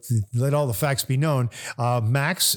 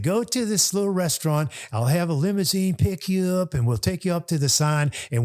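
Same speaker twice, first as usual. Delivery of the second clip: lightly imitated host, pitched up; a touch of the eager host voice; Hugh; 5 semitones higher than usual. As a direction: lay out the plan in a higher impersonated voice. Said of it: "He said".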